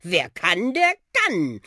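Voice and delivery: puffing talking bus, swooping pitch with drawn-out words; schnaufender Buschi. Acted. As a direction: huff out showy praise as a bus. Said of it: "Schnaufte der Buschi". (schnaufender, angeberischer Bus)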